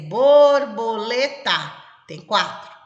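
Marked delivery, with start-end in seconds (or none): 0.1-1.5 borboleta drawn out syllable by syllable; slow dictation. Shown as a demonstration. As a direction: dictate it slowly to a child. (ditado lento, sílaba por sílaba)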